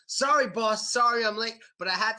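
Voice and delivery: high, eager mock apology; lightly voiced friend pleading with boss; apologetic employee. Friend apologizes to his boss for being late, mock pleading.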